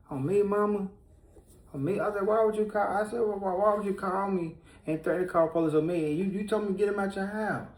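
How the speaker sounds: indignant outburst. Retold or imitated. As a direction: confront her in disbelief. Retold quarrel with his mother.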